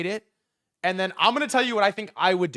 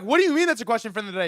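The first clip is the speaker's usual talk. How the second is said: incredulous; 5 semitones higher, much faster than usual. Retold or imitated. Retold disbelief at Chris.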